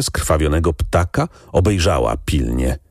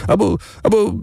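put-on a boy's high, halting, embarrassed stutter; ashamed stammer; faster than usual. A narrator's reading. Shamed boy stammers his excuse to the lady. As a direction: trip over the words in shame. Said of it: "jąkał się zawstydzony".

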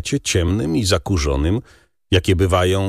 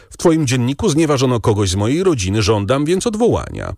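higher, brisk and insistent demand; firm, even sharp; 7 semitones higher, faster than usual. A narrator's reading. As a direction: press the demand firmly, with some edge. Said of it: "rzekł Albert stanowczo, ostro nawet". (stanowczo, nawet ostro)

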